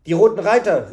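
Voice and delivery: the man at the table crying out the name; startled exclamation. A narrator's reading. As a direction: blurt out the name in alarm. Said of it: "rief der Mann".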